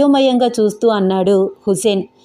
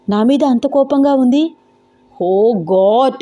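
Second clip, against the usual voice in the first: put-on anxious young man fretting under his breath; Venkat's worried thoughts; 2 semitones higher than usual. Venkat alone, stunned by the pregnancy news, worried monologue. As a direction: voice him panicking in his own head.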